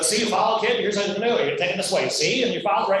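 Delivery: a light hint of an old-time movie tough guy; lightly imitating a cigar-chewing 1920s hustler; 1920s movie gangster. Producer instructing the young actor, lightly imitated 1920s tough guy. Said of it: "talks like one of those guys out of the nineteen twenties movies".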